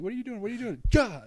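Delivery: high mock panic ending in a loud yelp; panicked kid. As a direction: imitate a kid fretting until the jab lands. Retold child panics at prick.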